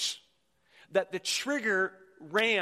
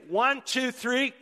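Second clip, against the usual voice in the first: rally the crowd, punching each number; loud countdown; 6 semitones higher, 6 dB louder, slower than usual. Real, not acted. Pastor counting the congregation into a clap, loud. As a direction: count it off louder and higher. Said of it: "can everybody put their hands together?".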